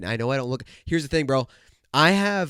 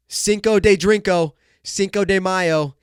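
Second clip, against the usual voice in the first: festive shout; 5 semitones higher, 7 dB louder, slower than usual. Acted. Festive loud slow call.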